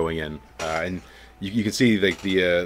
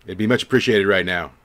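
Hawkins calls for mages; 6 dB louder than usual. Acted. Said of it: "He says, uh".

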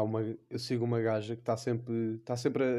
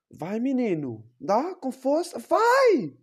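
rising to a shrill yelled cheer; hammed-up cheering; 12 semitones higher, 7 dB louder, much slower than usual. Cheering a friend on, building to a yell. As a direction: egg him on louder and louder.

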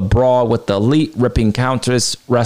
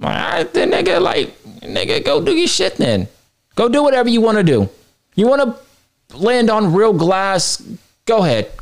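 way higher, squeaky mock brush-off; exaggerated dismissal; 8 semitones higher than usual. Host hamming Punk's brush-off at Perry, squeaky high. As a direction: push it up into a sarcastic squeal. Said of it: "that's what I would've said".

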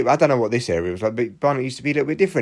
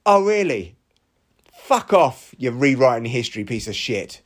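heated outburst. Real, not acted. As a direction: snap it at him, genuinely annoyed. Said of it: "got a little bit heated there".

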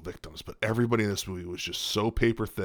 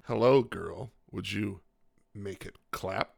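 stiff robotic voice; 3 semitones lower, 3 dB quieter, slower than usual. Pretend. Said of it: "have you ever seen Men in Black".

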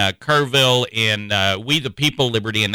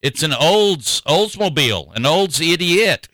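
put-on Irish accent; 3 semitones higher than usual. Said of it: "in his nice Irish accents".

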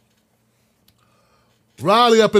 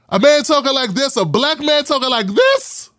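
incredulous; 5 semitones higher than usual. Real, not acted. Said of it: "comedians like Richard Pryor talk like this".

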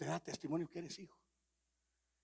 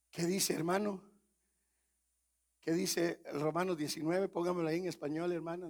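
loud preaching call; 4 semitones higher, 9 dB louder than usual. Acted. Preacher shouting a question at a brother in the pews.

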